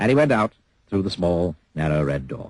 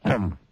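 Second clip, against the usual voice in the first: grunt. Acted. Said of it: "grunted Mister Grumpy".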